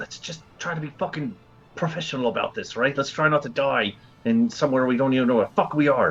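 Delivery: hushed half-whisper, stage whisper. Speaking in character to the party before exploring a room: half-whispering. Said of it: "I'm gonna whisper to everyone".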